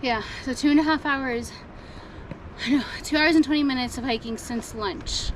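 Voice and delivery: out of breath from the hike; panting between words; after a workout. Real, not acted. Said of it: "Sorry, I'm still catching my breath".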